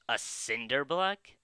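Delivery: slow incredulous question; surprised. Acted. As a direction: ask in disbelief, drawn out. Guard reacts in disbelief.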